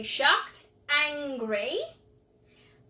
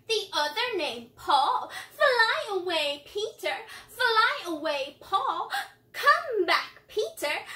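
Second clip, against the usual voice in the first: playful, bouncy cheeky rhyme with swooping pitch; 3 semitones higher than usual. Shown as a demonstration. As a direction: recite it cheekily, high chirps on the tweets. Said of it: "cheeky voice".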